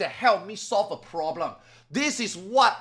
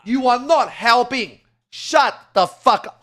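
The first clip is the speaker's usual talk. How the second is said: louder, fed-up shout at chat; annoyed yell; 4 semitones higher, 7 dB louder than usual. Real, not acted. Streamer yelling at the spamming chat, fed up. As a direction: tell the chat off hard. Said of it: "yelling at chat".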